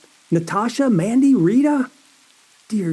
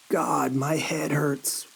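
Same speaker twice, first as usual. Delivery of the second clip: hoarse pained whisper, slow; 3 semitones lower, 5 dB quieter, slower than usual. Acted. Groggy waking in pain.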